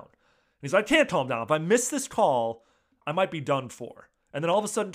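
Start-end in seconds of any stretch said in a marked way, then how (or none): 0.8-4.1 loud mock panic; imitating Drama freaking out. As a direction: refuse to calm down, half-acted and louder. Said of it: "Drama's freaking out".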